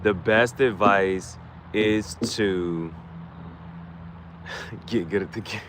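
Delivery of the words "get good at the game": laughing. Real, not acted. Joking punchline through laughter.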